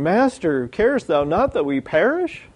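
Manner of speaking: mild mock scream, pitch climbing to the end; half-hearted scream to wake someone. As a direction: act out an alarmed plea, not full voice. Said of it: "They wake up Jesus screaming".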